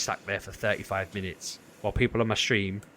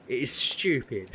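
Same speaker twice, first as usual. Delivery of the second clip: normal talking voice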